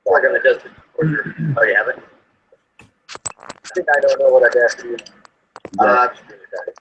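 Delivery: echoing thin phone playback; tinny delayed echo of the call; tin can phone. Real, not acted. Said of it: "sounds like you're talking through a tin can".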